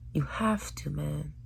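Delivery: whispered plea; hushed plea. Real, not acted. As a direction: whisper it urgently.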